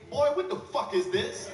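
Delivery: hammed-up furious mom; angry mom. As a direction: hit it like a mother who caught you. Mother confronts him.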